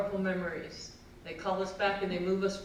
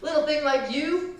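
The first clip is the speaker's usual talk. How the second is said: high, animated uncle telling a tall tale; warning uncle; 7 semitones higher, 4 dB louder than usual. Acted. Uncle scaring a small girl off fishing, mock-ominous. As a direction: build the danger in a raised voice, then drop for the verdict. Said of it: "my uncle said".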